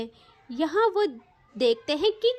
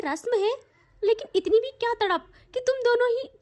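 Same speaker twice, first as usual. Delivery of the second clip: higher, stammering, teasing scold; scandalised mother; 4 semitones higher than usual. Acted. Mother teasing her daughter for the scandal, mock-shocked scolding. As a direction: tut at them like a shocked mother.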